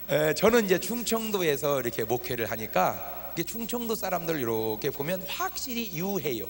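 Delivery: ordinary talk, nothing marked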